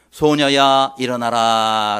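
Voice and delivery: low, loud, drawn-out command; commanding voice of Jesus. Acted. Preacher translating Jesus' words to the girl, low solemn command. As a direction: declaim it slowly and low. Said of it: "라는 뜻입니다".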